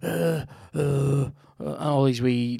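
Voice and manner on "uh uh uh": imitated groans. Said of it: "groans and grunts".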